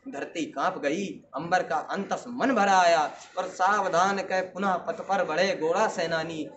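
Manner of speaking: measured verse delivery with ringing line ends; heroic poem recitation. Acted. Student reciting a battle poem to an audience, declamatory. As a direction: declaim it as a rhythmic Rajput ballad.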